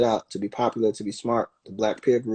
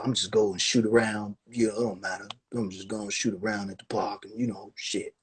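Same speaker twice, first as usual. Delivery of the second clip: softer and softer, trailing off, couldn't care less; lazy mumble; 6 dB quieter than usual. Retold or imitated. Casual player brushing off the game, lazy fading mumble. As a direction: shrug it off like it doesn't matter. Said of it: "You can just".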